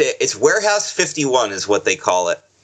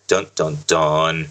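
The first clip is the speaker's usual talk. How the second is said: dramatic reveal; 6 semitones lower, much slower than usual. Acted.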